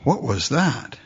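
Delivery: hushed, awed whisper-like murmur; a quiet stunned prisoner wondering aloud. Retold or imitated. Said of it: "are you just gonna sit back and go".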